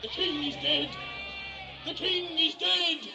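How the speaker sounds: shouting the news. Acted. Announcing the king's death.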